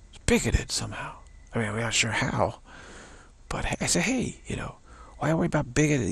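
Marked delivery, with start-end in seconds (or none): 4.0-6.1 sarcastic retort. Acted. Sarcastic reply to critics.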